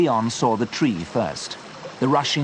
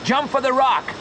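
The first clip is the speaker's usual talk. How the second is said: high, urgent order; shouted command. A narrator's reading. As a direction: yell the moment to leap. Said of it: "shouted Joe".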